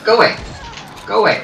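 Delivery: loud, high shout to shoo them off; shouting go away. Real, not acted. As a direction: yell at the zombies to get lost. Shooing zombies in game.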